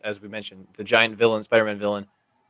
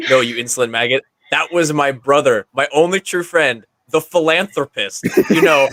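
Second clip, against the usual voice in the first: hammed villain. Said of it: "Speed Racer villain from the sixties anime".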